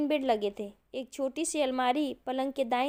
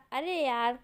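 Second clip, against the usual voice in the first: forced laughing; 4 semitones higher than usual. A narrator's reading. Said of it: "जबरदस्ती की हंसी हंसने, हंसते हुए बोला".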